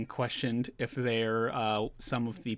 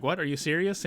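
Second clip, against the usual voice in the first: raised-pitch retold disbelief; mock freak-out; 5 semitones higher than usual. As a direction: imitate a crew's startled protest. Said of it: "they start freaking out".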